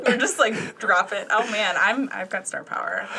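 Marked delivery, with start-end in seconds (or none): 2.1-3.1 vocal fry. Real, not acted. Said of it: "I've also got that vocal fry".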